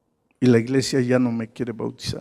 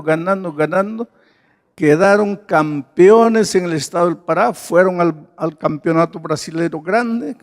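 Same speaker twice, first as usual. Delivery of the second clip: excited build; 4 semitones higher, 3 dB louder than usual. Real, not acted. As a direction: pitch climbing higher and louder to a peak. Preacher celebrates team's winning streak. (entusiasmo creciente, cada vez más agudo y fuerte)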